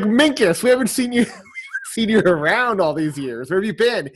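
high, loud, mock-surprised hello; excited greeting. Corey and Sean greeting Minkus after years, in high, loud mock excitement. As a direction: greet a long-lost classmate with a mock cheer.

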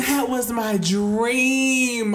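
put-on light New York accent, dreamy. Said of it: "Why are we talking in the New York accent?".

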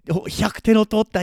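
high and bright bragging; excited friend. Pretend. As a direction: boast playfully in a high voice. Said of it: "Somebody says".

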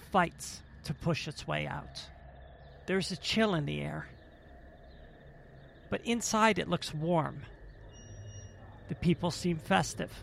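measured narration with long pauses; game master's scene setting. A narrator's reading. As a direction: set the scene phrase by phrase.

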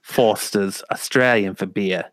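lightly put-on Australian ad slogan; a touch of mock Australian accent. Quoting a beer commercial, light mock Australian accent. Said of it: "That's Australian".

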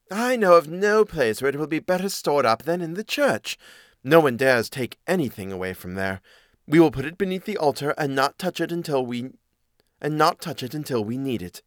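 lightly voiced storybook cat; a hint of a persuasive cat; advising cat. Cat proposing a hiding place, lightly voiced and persuasive.

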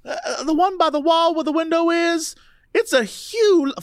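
a hint of Louisiana in a dazed recollection; Louisiana accent. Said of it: "read her in a Louisiana accent".

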